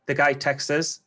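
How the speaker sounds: "Texas" said fast in a Geordie accent, meaning "texted us"; quick Geordie slur of "Texas". Real, not acted. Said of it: "that's my Geordie accent".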